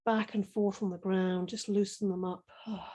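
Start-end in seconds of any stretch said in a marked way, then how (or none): 2.7-2.8 soft, relieved sigh while stretching; contented sigh. Real, not acted. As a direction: let out a pleased little sigh. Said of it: "feels good".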